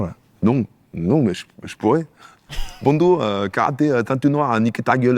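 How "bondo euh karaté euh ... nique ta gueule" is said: a lightly put-on fake Asian accent, higher; mock Asian accent. Comedian shows off a mock Asian accent. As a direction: caricature a bad Asian accent, pitched up. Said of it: "C'est quoi comme accent, ça?".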